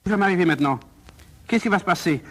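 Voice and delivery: anxious questions tumbling out; worried, dawning alarm; panicked. Acted. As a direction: fret as the panic starts to rise. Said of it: "pris de panique".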